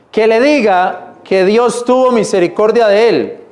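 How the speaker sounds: steady reading of the verse; scripture reading. Acted. Preacher reading scripture to his church, measured. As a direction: carry the verse through to its end.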